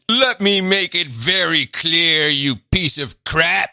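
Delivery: slow, mock-stern premier voice. Host mocks the premier's slow stern brush-off of a reporter. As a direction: lay it down slow and smug. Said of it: "I love the".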